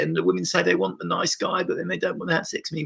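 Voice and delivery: lightly whining like a self-pitying man; understated complaining nice-guy voice; whiny nice guy. Retold or imitated. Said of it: "Whine, whine".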